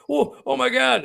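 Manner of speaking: high, hushed-away gasp of disbelief; reliving the moment he saw it; retold amazement. Reliving finding the rocks, high amazed exclamation. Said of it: "I'm going".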